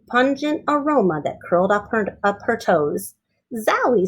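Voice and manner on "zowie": exclaiming. Acted. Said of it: "said Ada".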